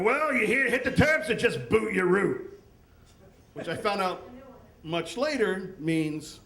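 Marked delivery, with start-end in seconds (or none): 0.0-2.6 lightly imitated Australian local; louder Australian slang question; mock Australian accent.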